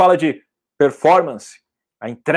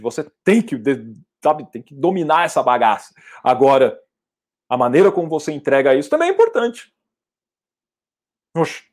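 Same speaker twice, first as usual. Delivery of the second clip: ordinary delivery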